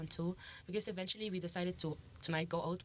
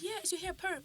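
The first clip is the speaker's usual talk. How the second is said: curious woman; 13 semitones higher than usual. Retold or imitated. Imitating woman asking.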